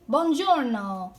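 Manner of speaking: buongiorno slow and loud, bwon-JOR-no; Italian pronunciation demo. Shown as a demonstration. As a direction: stretch out buongiorno for learners. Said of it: "So to say good morning".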